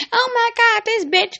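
high, put-on voice of a woman shrieking at her man; mock female outburst. Mocking a girlfriend in a public fight, high shriek.

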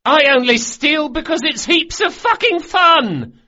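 put-on very high, loud, boyish yell with FUCKING hit hardest. A narrator's reading. Bug, the youngest thief, yelling his toast. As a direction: scream it out with drunken glee. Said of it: "shakily and yelled".

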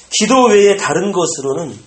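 solemn pronouncement. Acted. Quoting Jesus' answer.

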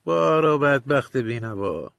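slow, lightly sneering taunt; a touch of scorn, drawn out; mocking sneer. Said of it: "با ریشخند گفت".

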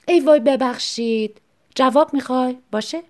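a fake apology dripping with spite; sarcastic apology. Wife snubbing husband, mock apologetic sarcasm.

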